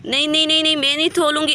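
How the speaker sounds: lightly voiced childish whine; stubborn child. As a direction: refuse like a stubborn little girl. Childlike Saman refuses to let go.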